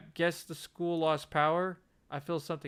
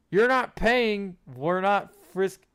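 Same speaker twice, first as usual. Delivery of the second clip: slow, flustered protest; indignant; 6 semitones higher, 8 dB louder, slower than usual. Acted. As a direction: splutter in protest.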